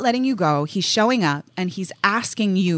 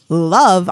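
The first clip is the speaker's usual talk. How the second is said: LOVE set apart and louder; air quotes; 3 semitones lower, 5 dB louder than usual. Real, not acted. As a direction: put audible air quotes round "love". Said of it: "I have air quotes up right now".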